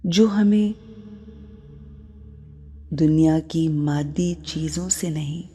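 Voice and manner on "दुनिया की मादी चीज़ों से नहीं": usual speaking voice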